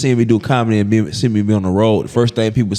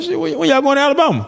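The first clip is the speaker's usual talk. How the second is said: retold disbelief; faster than usual. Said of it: "I'm like".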